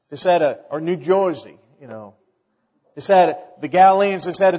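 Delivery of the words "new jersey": mock New Jersey accent, "Joisey"; lightly put-on New Jersey accent. Shown as a demonstration. Preacher giving another accent example, New Jersey accent. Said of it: "I can't do very many accents".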